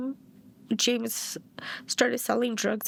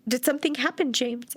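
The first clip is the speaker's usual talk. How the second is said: higher, retold worried question easing on the name; alarmed mother; 4 semitones higher than usual. Mother questioning her crying son, retold alarm. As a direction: replay a mom's anxious check on her son. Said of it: "he scared me".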